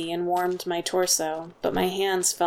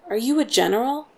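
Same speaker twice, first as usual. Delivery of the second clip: spat with venom, higher; venomous; 6 semitones higher, 3 dB louder than usual. A narrator's reading. Impostor scorning the gate guard, venomous retort. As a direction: sneer the question at him. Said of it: "with as much venom as I could".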